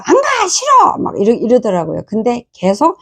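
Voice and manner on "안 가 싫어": high shrill-free yell of a refusing daughter, much higher. Retold or imitated. Mother retells daughter yelling she won't go. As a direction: shout no like a stubborn child. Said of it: "막 소리 지르면서".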